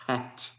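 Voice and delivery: Hat said with an aspirated H, like a Portuguese strong R; hat, English. Shown as a demonstration. Teacher demos Hat to the class, aspirated H. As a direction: breathe out the H of Hat. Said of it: "como é que eu falo chapéu em inglês".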